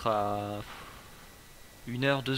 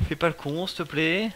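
scared pleading; 5 semitones higher, 5 dB louder than usual. Real, not acted. Pleading with the enemy.

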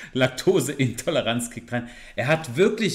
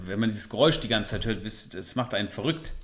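calming down; 4 semitones lower, 5 dB quieter than usual. Real, not acted. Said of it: "erstmal wieder runterkommen".

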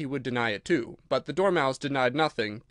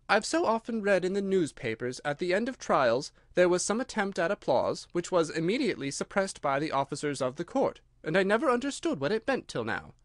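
lightly voiced Alice, a little raised; Alice musing; 4 semitones higher than usual. Alice reflects privately on what she saw, lightly musing. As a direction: muse to yourself in a higher voice.

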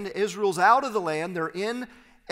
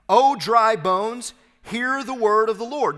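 louder, slightly raised call to the bones; prophetic proclamation; 3 semitones higher, 6 dB louder than usual. Acted. Prophet addresses the dry bones aloud.

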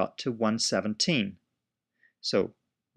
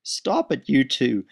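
stern shout; 2 semitones higher, 6 dB louder, slower than usual. Acted. Teacher scolding the pair.

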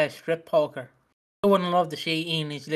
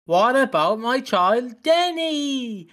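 mock plea; 6 semitones higher, much slower than usual. Mock-dramatic plea as Sonia.

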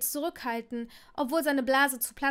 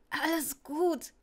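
a slow, croaky reassurance after choking; croaked; 4 semitones higher, slower than usual. Acted. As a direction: wheeze it out as if still coughing. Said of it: "krächzte Neville". (Neville krächzt nach dem Verschlucken)

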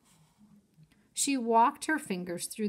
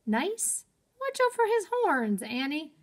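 alarmed Jack; 8 semitones higher than usual. Acted. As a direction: warn her in disbelief.

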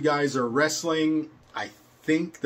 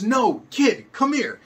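put-on higher and louder teen calling the kid; exasperated teen boy; 9 semitones higher, 5 dB louder, slower than usual. Teen ringleader summoning the kid again, high and impatient. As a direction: call him over in a high impatient teen voice.

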